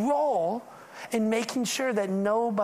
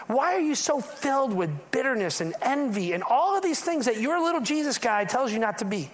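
incredulous outsider; 2 semitones higher than usual. Retold or imitated. Outsider challenging hypocritical Christians.

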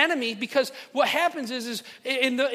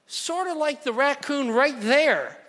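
deadpan friend; 5 semitones higher, 3 dB louder, slower than usual. Retold or imitated. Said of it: "He goes".

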